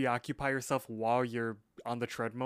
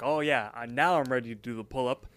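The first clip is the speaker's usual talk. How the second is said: louder, pumped-up boast; mock hyped-up; 5 dB louder than usual. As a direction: imitate someone hyping up the crowd. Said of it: "gets everyone all hyped, being like".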